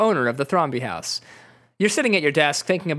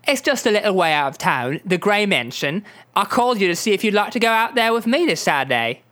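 lightly voiced British pop star; a hint of bubbly London girl; Spice Girl voice; 3 semitones higher than usual. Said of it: "clearly a Spice Girl".

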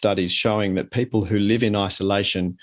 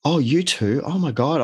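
higher, lightly acted surprise; surprised recognition; 6 semitones higher than usual. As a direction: discover a friend is in the same boat. Mate learns friend shares anxiety.

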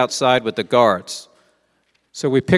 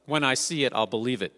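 skeptical aside; 8 dB quieter than usual. Retold or imitated. Voicing Thomas's skepticism.

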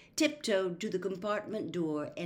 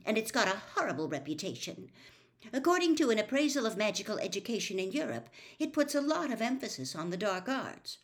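stiffly; 5 semitones higher, faster than usual. Acted. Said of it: "said Hermione stiffly".

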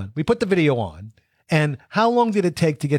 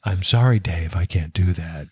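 calm, lower computer voice; HAL; 5 semitones lower than usual. Retold or imitated.

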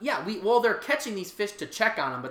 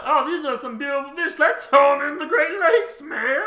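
carefree dude voice; 7 semitones higher, 5 dB louder than usual. Pretend. Mock careless golf course owner.

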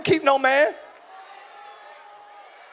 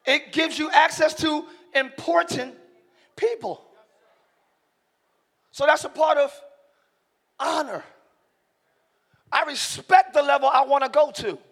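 deliberate, taking time; 3 dB quieter than usual. Real, not acted. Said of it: "take my time and say it".

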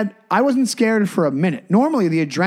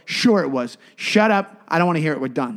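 calm stern parent voice. Retold or imitated. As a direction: shut him down calmly but firmly. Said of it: "I was just being stern".

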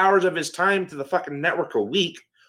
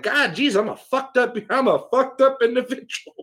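laughing self-mockery; 8 semitones higher than usual. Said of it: "you're like".

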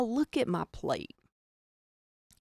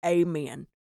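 a put-on dinner blessing; mock grace; 4 dB louder, slower than usual. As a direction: say an imitation grace, starting strong and settling into the amen. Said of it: "kinda weird to be like".

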